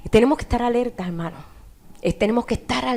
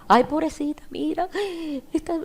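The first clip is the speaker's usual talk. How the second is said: soft, higher-pitched fussing; cooing pity; 4 semitones higher, 5 dB quieter than usual. Acted. Someone fussing over a little ache, cooing pity. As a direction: coo softly over a small hurt.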